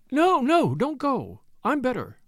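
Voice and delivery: high, urgent feverish plea. A narrator's reading. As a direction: hold him back in a fever of anxiety. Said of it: "she said feverishly".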